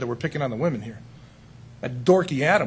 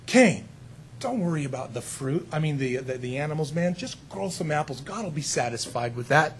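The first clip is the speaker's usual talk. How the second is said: soft, casual coaxing, quieter; soothing tempter; 3 semitones lower, 4 dB quieter than usual. Retold or imitated. The enemy coaxing Cain to offer fruit, soft and sly. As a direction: talk him into it like a buddy.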